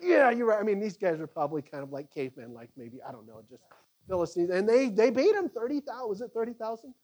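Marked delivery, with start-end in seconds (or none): 0.0-0.6 troops agreeing. Acted. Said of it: "they're like".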